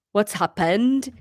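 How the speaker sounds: slow, lightly Welsh questioning lilt; Welsh accent. Acted. Son Owen interrupts from the doorway, Welsh accent. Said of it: "he is going to be Welsh".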